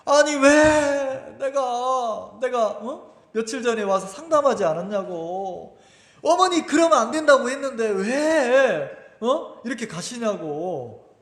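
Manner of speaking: drawn-out aggrieved pleading, voice lifting on the questions; plaintive lament. Retold or imitated. Son complaining to his mother who just died, plaintive lament. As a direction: complain to her like a hurt child. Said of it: "막 하소연을 했어요".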